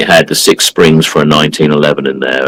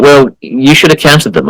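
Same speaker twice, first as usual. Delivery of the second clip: mock scolding old guy; 7 semitones higher than usual. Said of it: "And he was like".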